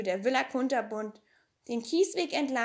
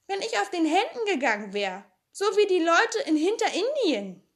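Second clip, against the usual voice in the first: put-on girl's voice rising higher and louder as the tall tale grows; boasting Pippi; 5 semitones higher, 4 dB louder than usual. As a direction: brag bigger and bigger like a world traveller.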